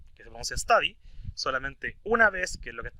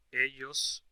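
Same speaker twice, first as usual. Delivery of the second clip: Ellos bucean said very slowly; slow quiz phrase; 3 semitones lower, much slower than usual. Shown as a demonstration. Teacher reads the quiz phrase slowly to students. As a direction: spell out Ellos bucean for learners. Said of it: "¿cómo se dice?".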